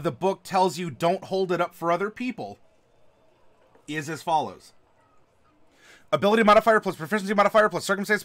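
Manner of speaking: talking through a mouthful of chips; mouth full. Shown as a demonstration. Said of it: "with a mouthful of chip and salsa".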